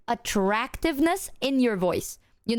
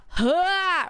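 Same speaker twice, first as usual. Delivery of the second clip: put-on e-boy huh; 7 semitones higher than usual. Shown as a demonstration. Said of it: "Like a, like a".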